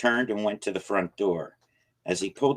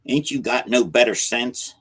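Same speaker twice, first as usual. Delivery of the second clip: loud, higher, scolding; gruff old man scolding; demanding question; 5 semitones higher, 6 dB louder than usual. A narrator's reading. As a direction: bark it at him. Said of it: "he asked".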